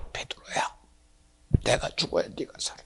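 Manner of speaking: soft, tearful whisper; tender whisper. Acted. The Lord answering his disciple in a tearful whisper. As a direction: hush it like a grieving friend.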